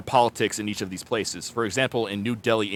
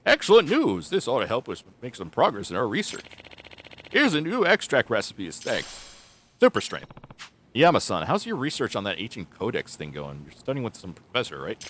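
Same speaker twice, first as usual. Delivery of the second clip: a lightly voiced eager old researcher; excited old researcher. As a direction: greet them like welcome news. Yama-san voiced in game.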